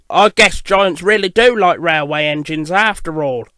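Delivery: amused teasing remark; light chuckle. Acted. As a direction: say it with mild amusement. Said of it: "James said with a chuckle".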